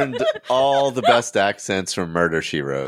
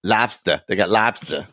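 put-on Boston accent. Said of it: "We're so bad at accents".

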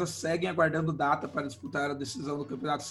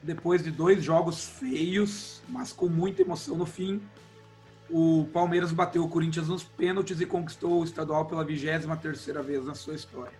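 hoarse, worn-out voice after shouting; cracked reedy voice. Real, not acted. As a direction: speak through a strained, cracking throat. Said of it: "minha voz de taquara rachada". (voz rouca de taquara rachada)

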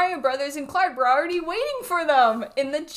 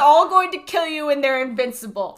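laughing; 6 dB louder than usual. Real, not acted. Quoting funny video, laughing.

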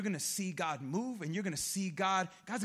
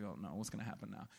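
much lower, softer, mock dread; hushed inner dread; 13 semitones lower, 12 dB quieter, faster than usual. Husband fearing his wife's request, hushed mock dread. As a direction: murmur it like a doomed husband.

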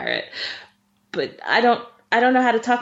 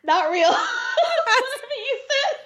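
words squeezed out through real laughter, higher; laughing; 14 semitones higher, slower than usual. Real, not acted. Reacting to a friend's botched pirate voice, laughing through it. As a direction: laugh helplessly while talking.

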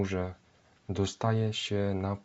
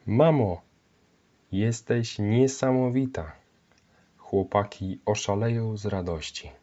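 louder, delighted cry to her mother; joyful exclamation; 2 semitones higher, 4 dB louder than usual. Acted. Basia thanking her mother for the bread, joyful and loud. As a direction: burst out happily over the hot bread. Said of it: "wykrzyknęła uradowana".

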